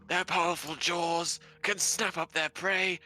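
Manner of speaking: slow, measured nature documentary voice; David Attenborough narration. Acted. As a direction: savour each word like a wildlife film. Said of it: "That sounded exactly like David Attenborough".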